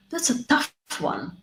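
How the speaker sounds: said high, musing; model phrase. Shown as a demonstration. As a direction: react like you're thinking it over. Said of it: "you can repeat this phrase after me".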